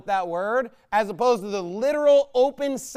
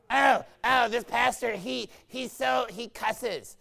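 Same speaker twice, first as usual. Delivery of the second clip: put-on hesitant, scandalized voice; mock shocked complainer; 2 semitones higher, slower than usual. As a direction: imitate a fussy churchgoer faltering in dismay. Mimics a shocked churchgoer complaining.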